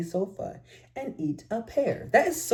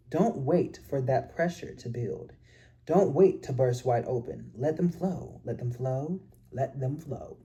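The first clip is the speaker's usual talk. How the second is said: reading aloud. Acted. Reads book passage aloud.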